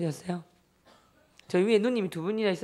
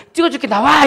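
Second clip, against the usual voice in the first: very loud, high mock surrender; exasperated yelling; 6 semitones higher, 12 dB louder than usual. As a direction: imitate a fed-up mother shouting as she gives in. Mother gives in, exasperated.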